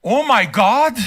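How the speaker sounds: exaggerated disbelief; put-on scandalized astonishment; mock shock. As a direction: act appalled. Mock shock at having to pay.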